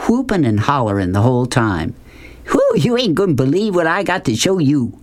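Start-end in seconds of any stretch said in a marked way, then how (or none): 2.5-4.9 higher, excited holler; calls out eager to show off. A narrator's reading. Beauchamp hollers to Rob about his surprise, mild holler. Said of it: "Beauchamp hollered at him".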